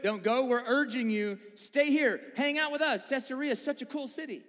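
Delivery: insistent mock pleading; urging. Friends urging Paul not to go, insistent pleading. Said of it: "they're just urging him".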